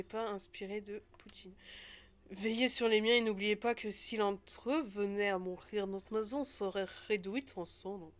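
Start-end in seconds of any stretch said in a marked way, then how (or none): 2.3-8.1 badly faked Russian accent; attempted Russian accent. Game character entrusting their people to a host, attempted Russian accent. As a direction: have a rough go at a Russian accent. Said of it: "Je sais pas faire l'accent russe".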